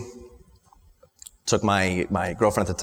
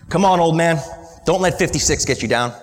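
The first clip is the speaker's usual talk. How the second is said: calling out; 5 semitones higher than usual. Retold or imitated. Calling father to wake up.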